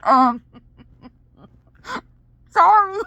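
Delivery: giggling, high sorry through laughter; laughing apology. Retold or imitated. Mom laughing as she says sorry to her son. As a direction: apologize while cracking up.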